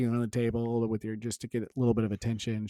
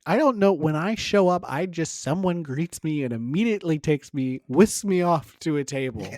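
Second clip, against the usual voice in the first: pompous judge; 4 semitones higher, 4 dB louder than usual. Retold or imitated. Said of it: "they're like".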